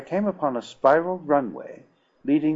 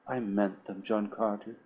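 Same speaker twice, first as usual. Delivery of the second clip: hushed and soft, barely above breath; soft whisper; 8 dB quieter than usual. A narrator's reading. Princess whispering her answer to John Carter, softly. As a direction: whisper it, not wanting to be overheard. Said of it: "she whispered".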